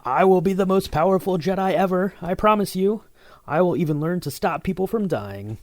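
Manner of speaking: put-on whiny, high, loud young Anakin; petulant voice. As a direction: pout it out like a sulky teen Jedi. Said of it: "in, like, your most petulant voice?".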